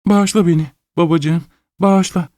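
put-on high girl's pleading. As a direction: beg father for forgiveness. Daughter begs forgiveness.

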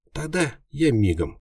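high, quick imp voice; a tiny demon off in a flash; eager imp. A narrator's reading. Imp agreeing to fetch the cure, high eager.

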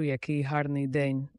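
lightly acted breathlessness; out of breath. Shown as a demonstration. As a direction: say it as if startled and winded. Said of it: "зовсім захекано". (трохи захекано)

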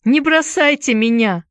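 high, pleading cry; panicked plea. A narrator's reading. Boy fearing abandonment by friends, panicked plea. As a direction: beg them in fright.

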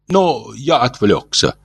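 high, slow, polite Martian; gentle alien voice. Acted. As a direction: speak like a kindly old alien. Ulin voiced.

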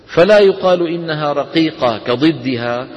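slow measured chanting of the poem; verse recitation. Shown as a demonstration. Teacher reciting a tajweed poem to students, slow chant. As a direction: recite the verse slowly and evenly.

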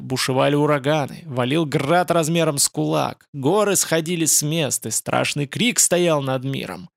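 wild demonic roar; echoing ethereal energy being. Acted. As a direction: rage and gloat at once. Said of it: "дикий рёв". (дикий рёв с хохотом)

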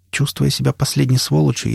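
ordinary delivery

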